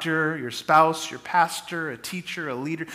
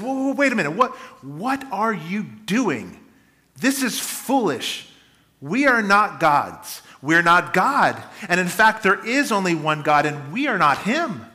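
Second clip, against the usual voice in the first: urgent protest; 3 semitones higher than usual. Retold or imitated. Apostles protest the crowd's worship.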